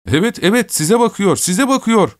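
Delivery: very high, excited chorus cries; high-pitched, repeated calls; children shouting. A narrator's reading. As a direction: pipe up like a clamouring gang. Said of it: "diye bağırıştılar".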